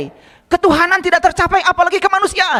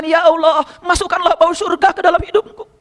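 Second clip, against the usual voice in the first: prayerful recitation. Retold or imitated. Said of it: "Nabi Muhammad mengatakan".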